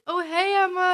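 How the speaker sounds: high, loud imitation of friends saying hello; excited greeting back. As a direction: voice the group's delighted recognition. Retold friends greeting her back.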